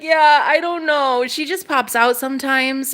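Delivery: put-on lightly done British accent. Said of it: "my British accent came out".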